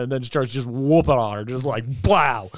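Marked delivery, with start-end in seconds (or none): 2.0-2.5 drawn-out mock impact sound; imitated punch noise. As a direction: voice the hit landing, stretched out.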